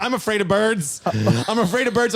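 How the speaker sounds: imitated panic, high-pitched and pleading; panicking. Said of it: "panicking. She's, like, shaking".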